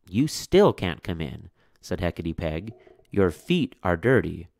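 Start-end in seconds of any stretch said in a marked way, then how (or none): 0.1-1.5 stern witch. Acted. Witch refusing the mother. 3.1-4.5 stern witch. Acted. Witch scolding the mother.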